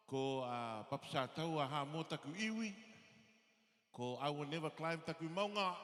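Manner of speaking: ordinary talk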